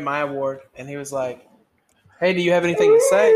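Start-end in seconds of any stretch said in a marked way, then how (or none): 2.2-3.3 much higher, louder and fast mock captain. Imitating the captain asking him to speak, high and fast. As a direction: squeak out the captain's question in a rush. Captain asks at award reading.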